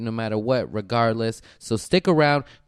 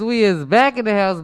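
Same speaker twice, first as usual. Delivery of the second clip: hype; 10 semitones higher, 7 dB louder than usual. Acted. Repeated hype phrase.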